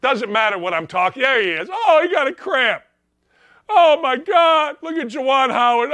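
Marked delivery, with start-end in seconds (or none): 1.7-4.8 high, loud mock wail; hammed-up wail; mock whine. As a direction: whimper like a fake hurt star. Mocking LeBron's cramp.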